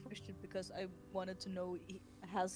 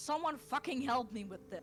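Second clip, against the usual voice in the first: mild mock yell, higher pitched; yelled plea for help; 5 semitones higher, 4 dB louder than usual. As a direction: call out for help in character, not full volume. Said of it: "yell out".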